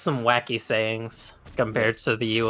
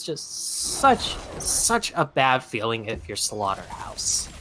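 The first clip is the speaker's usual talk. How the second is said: hushed; 4 semitones lower, 6 dB quieter, slower than usual. Real, not acted. Caster drops to a hush.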